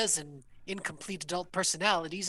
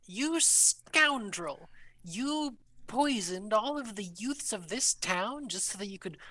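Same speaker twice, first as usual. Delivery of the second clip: outraged accusation, mildly raised; indignant Hilda. Acted. Hilda scolding the prince, lightly indignant. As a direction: scold him like a wronged townswoman.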